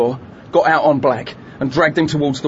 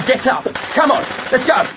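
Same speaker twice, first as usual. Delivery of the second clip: urgent shout; 11 semitones higher than usual. Acted. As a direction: yell him up onto his feet. Rousing hostage, shouting.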